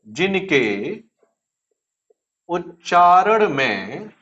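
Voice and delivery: drawn-out words with long pauses for note-taking; slow dictation. Real, not acted. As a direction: dictate slowly, word group by word group. Dictates a definition for writing. (धीरे-धीरे, रुक-रुककर लिखवाते हुए)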